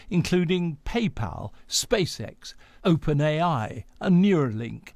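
measured scripted radio news delivery; news read. Acted. Presenter introduces Elon Musk's story to listeners, news read.

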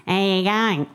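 Australian greeting run into one sound; Australian accent. Shown as a demonstration. Mum teaching her English son an Australian accent. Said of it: "teach him Australian accent".

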